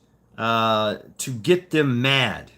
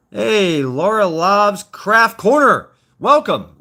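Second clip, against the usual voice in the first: show host greeting; 7 semitones higher, 7 dB louder, much slower than usual. Acted. Shout-out greeting to viewer.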